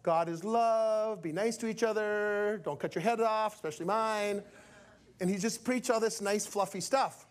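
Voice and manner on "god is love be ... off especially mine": generic preaching. Retold or imitated. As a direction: imitate a safe, noncommittal preacher, stretching the words. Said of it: "he preached very, very generic".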